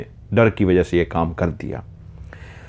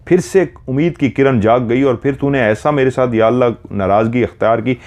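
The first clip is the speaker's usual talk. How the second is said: raised-pitch, aggrieved appeal to God; mildly acted anguished complaint; pleading lament; 4 semitones higher than usual. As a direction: plead with God over repeated loss. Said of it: "बहुत गिड़गिड़ाया था".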